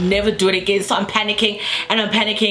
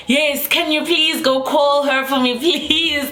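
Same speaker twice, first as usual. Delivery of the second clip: higher, urgent retold plea; acted pleading; 5 semitones higher, slower than usual. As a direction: beg for help, pitch raised. Begging acquaintance to fetch friend.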